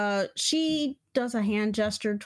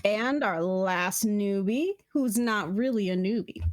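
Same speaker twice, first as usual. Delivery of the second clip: measured, drawn-out introduction; game master's unhurried announcer delivery; slower than usual. Acted. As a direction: present the next contestant like an announcer.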